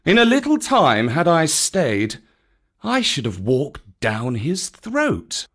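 rattled, starting high and hurried; trembling. Acted. Panther recalling his narrow escape, trembling. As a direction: let the alarm ease down through the line.

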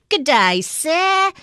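lightly voiced saucy young maid, rising high on sir; a pert little curtsy of a line. Imitating the young maid from Gaslight greeting a gentleman. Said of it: "saucy maid".

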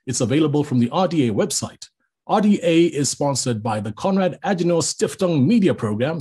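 polished announcer read with lifted key words; voiceover voice. Shown as a demonstration. Voiceover artist reads sponsor info for delegates to rate, voiceover voice. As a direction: deliver it as a professional sponsor promo. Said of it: "do it in a voiceover voice kind of way".

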